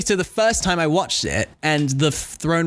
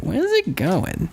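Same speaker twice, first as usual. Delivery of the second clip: distressed viewer voice; 3 semitones higher, much slower than usual. Retold or imitated. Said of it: "It's my complete distressed viewer voice".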